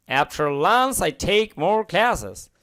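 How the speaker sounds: slow, careful model sentence; teacher dictating slowly; slow reading. Shown as a demonstration. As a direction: read it out word by word. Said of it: "reads model sentence slowly".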